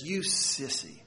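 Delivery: a touch of contempt, spat out; mild disgusted father. Retold or imitated. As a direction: sneer it like a scornful father. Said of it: "with sort of a disgusted expression says".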